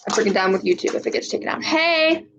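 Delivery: talking while chewing gum. Real, not acted. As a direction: chew gum as you speak. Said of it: "So I'm chewing gum".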